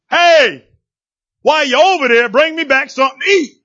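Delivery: high, loud pushy call; mock bossy beggar; demanding Elijah. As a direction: toss off a rude extra request. Elijah voiced demanding food.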